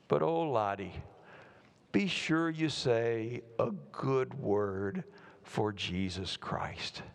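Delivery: slow, measured, gently earnest counsel; tender plea. Acted. Aunt to her preacher nephew, touching, slow plea. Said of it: "she has this very touching conversation with him".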